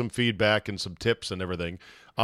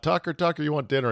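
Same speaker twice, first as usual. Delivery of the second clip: calling the dog; 4 semitones higher, faster than usual. Retold or imitated. Wife lures the lost dog back, lightly imitated sing-song call. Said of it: "So she yelled out".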